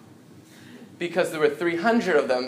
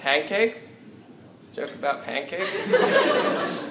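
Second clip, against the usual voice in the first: surprised; 5 semitones higher, much slower than usual. Real, not acted. Audience request for pancake joke.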